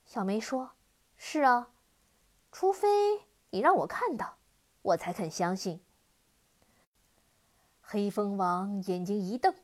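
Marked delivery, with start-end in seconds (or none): 1.2-5.8 daring challenge. Acted. Girl challenges the demon.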